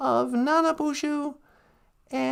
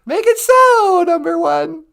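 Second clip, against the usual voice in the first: captain's command; 2 semitones higher, 9 dB louder than usual. Pretend. Playing holodeck, captain commanding number one grandly. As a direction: give the order like a starship captain. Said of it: "Star Trek captain line".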